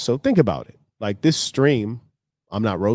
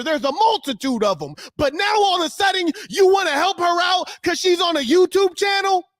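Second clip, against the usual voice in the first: furious shout; 5 semitones higher than usual. Real, not acted. Streamer ranting at his South African commenters, furious shout. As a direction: yell it at the commenters, voice climbing.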